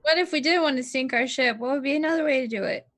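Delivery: put-on slurred drunk character voice; tipsy and slurring. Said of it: "This is Turley's drunk voice".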